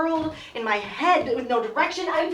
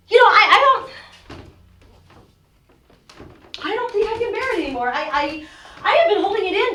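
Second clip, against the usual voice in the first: distraught; 4 semitones higher, 4 dB louder than usual. Acted. Irina breaking down to Olga.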